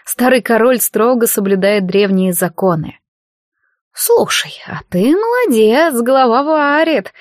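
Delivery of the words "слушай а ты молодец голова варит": higher, a sudden spark of interest; light up mid-thought, half-whispered; mother perking up at the father's idea; sudden eagerness. A narrator's reading. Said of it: "вдруг оживилась мать".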